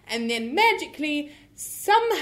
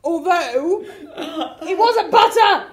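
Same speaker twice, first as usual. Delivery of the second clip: loud retort; 3 semitones higher, 8 dB louder, much slower than usual. Acted. Improv scene, retort in character.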